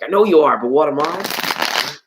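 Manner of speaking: lightly voiced playground retort, stretched ending; kid's comeback. Kid answering Johnny's name-calling, mild mock taunt. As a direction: toss back a kid's taunt, slowing at the end. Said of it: "when you're a kid".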